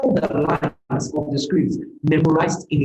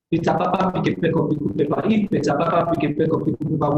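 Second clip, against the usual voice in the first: quick tongue-twister recital in a lowered pitch; 3 semitones lower, faster than usual. Shown as a demonstration. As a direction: rattle it off quickly, a little low. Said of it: "That's a tongue twister".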